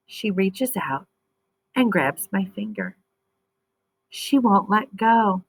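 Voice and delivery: lively storybook reading voice; expressive read-aloud for young readers; reading to children. Acted. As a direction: read it like a picture book to kids.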